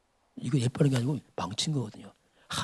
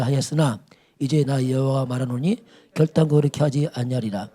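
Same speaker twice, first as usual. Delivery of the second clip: solemn, declaiming read of the Lord's word; preacher reads God's declaration aloud; scripture reading; 2 semitones lower than usual. Acted.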